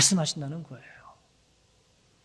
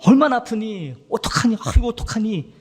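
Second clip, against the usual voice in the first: higher, louder fussing over the hurt; worried comforting mother; 6 semitones higher, 6 dB louder than usual. Acted. Mother comforting her hurt child, anxious and fussing. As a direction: fuss over the child's scraped knee. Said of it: "막 오고 불면서".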